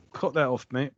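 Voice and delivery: put-on a light Northern English accent. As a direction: say it like a blunt Northern bloke. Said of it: "Like, in a northern accent".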